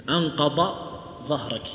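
أنقض with a heavy emphatic dad, ظهرك with a dha; أنقض said with ض, then ظهرك with ظ; dad and dha contrast. Shown as a demonstration. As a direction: articulate أنقض with ض and ظهرك with ظ clearly. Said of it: "هذه أنقض بالضاد".

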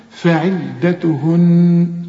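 فعدتهن very slowly drawn; slow recitation. Shown as a demonstration.

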